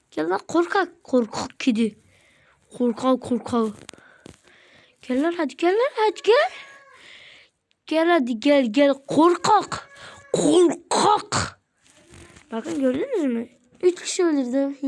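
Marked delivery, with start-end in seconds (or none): 0.1-3.7 taunting. Real, not acted. Taunting enemy in game. 5.0-6.5 taunting call. Real, not acted. Taunting enemy in game. 7.9-11.6 taunting. Real, not acted. Taunting enemy in game.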